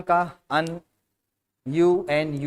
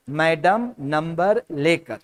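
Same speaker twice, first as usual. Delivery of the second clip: slow recap; slower than usual. Shown as a demonstration. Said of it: "क्या trick है?".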